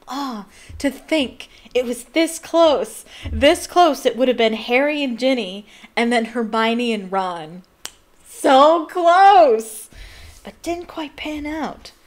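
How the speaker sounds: loud, slow, drawn-out lament; anguished fan outburst. Real, not acted. Reader mourns Harry and Ginny not pairing up, in loud anguish. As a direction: wail at how near it came.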